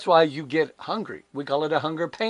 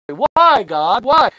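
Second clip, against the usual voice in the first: anguished why; 7 semitones higher, 10 dB louder, much slower than usual. Retold or imitated. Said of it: "almost automatically".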